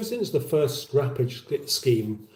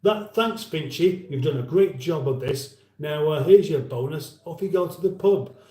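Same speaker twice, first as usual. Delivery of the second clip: approving company bosses. Acted. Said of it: "They said".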